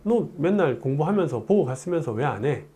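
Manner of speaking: normal talking voice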